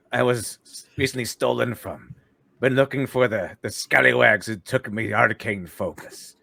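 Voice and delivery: lightly voiced scallywag pirate; a hint of old-time pirate; pirate character. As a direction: speak in a mild piratical brogue. Player answers in pirate character.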